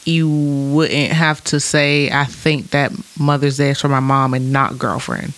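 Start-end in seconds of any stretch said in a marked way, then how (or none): 2.1-5.3 attacking tone. Shown as a demonstration. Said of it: "trying to attack".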